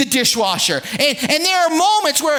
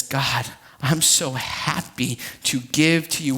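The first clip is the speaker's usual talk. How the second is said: happy giver; 11 semitones lower, 5 dB quieter than usual. Acted. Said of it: "a heart that says".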